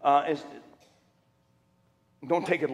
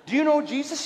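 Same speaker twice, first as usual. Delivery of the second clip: mock echo; 9 semitones higher than usual. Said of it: "I said".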